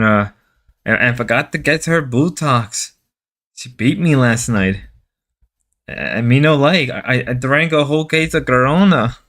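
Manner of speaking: lightly hammed-up Mexican husband; mock Mexican accent. Husband confessing his wife beat him, in a mock Mexican accent. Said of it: "I gotta stop doing the Mexican voice".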